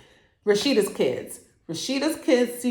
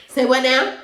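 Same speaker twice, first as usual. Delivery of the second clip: shocked; 6 semitones higher, 7 dB louder than usual. Real, not acted. Reacting to shocking twist.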